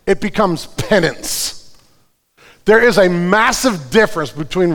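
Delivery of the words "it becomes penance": slowed right down, word by word; slow, pointed. Real, not acted. Pastor stressing a key point to his church, slow and pointed. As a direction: lean in slowly so they catch it. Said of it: "and catch this".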